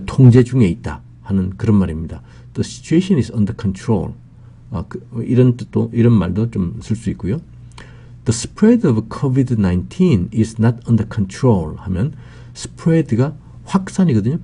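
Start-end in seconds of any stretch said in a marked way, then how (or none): 2.5-4.1 very slow, every word laid out; slow, careful example sentence; slow model reading. Shown as a demonstration. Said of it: "model sentence read slowly". 8.2-11.8 very slow, every word laid out; slow, careful example sentence; slow model reading. Shown as a demonstration. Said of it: "model sentence read slowly".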